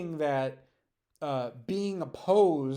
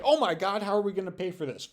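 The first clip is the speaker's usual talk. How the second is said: mock O'Reilly panic; 4 semitones higher, faster than usual. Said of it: "Would Bill O'Reilly say".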